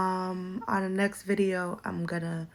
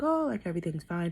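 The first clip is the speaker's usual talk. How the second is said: breezy mock calm; faster than usual. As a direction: fake breezy everything's fine. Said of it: "I sound all like".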